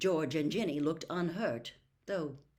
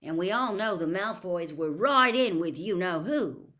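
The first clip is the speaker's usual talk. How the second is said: louder, eager telling; eager accusation; 3 semitones higher, 9 dB louder than usual. Acted. Ron telling his dad about Malfoy, eager. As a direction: rush to make the case.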